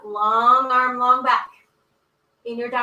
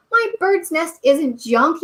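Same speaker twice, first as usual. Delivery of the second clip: slow, higher storyteller yell; 6 semitones higher, 5 dB louder, slower than usual. A narrator's reading. Brother protesting to Mama, a read-aloud yell. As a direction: drag it out like a cub hollering. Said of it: "yelled brother at the top of his lungs".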